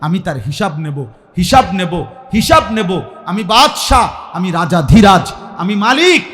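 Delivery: loud, rising declaration of power; commanding preacher's roar; booming divine warning. Acted. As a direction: thunder it out as the King. Preacher voicing God's warning.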